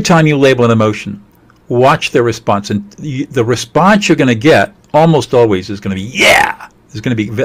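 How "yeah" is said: higher, emphatic exclaimed "yeah"; very declarative yes. Acted. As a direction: answer like a child who feels exactly understood. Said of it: "a very declarative yes".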